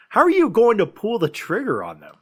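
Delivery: high-pitched, acted-out agonizing over an impossible choice; anguished dilemma. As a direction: voice leaps up as if torn. Acting out Johnny's anguished dilemma.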